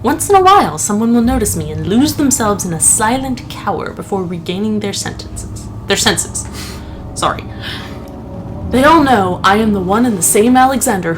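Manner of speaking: reading a diary entry with gravity; dramatic note reading. Acted. Friend reads the game character's journal to his co-player, solemn. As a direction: read the tortured nobleman's note aloud. Reads Alexander's notes aloud.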